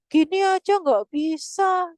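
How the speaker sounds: mock exasperated parent scolding; angry parent. Frustrated parent scolding child who fails the test, loud and slow. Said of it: "orang tua jadi marah".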